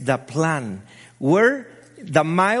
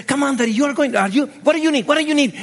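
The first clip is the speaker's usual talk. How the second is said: daughter's cheering voice; 7 semitones higher, 4 dB louder, much faster than usual. Retold or imitated. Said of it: "we start to chat".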